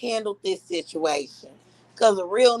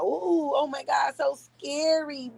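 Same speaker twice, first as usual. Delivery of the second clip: sarcastic faked fright, higher and soft; mock fear; 3 semitones higher, 4 dB quieter than usual. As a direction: pretend to be scared, dripping irony.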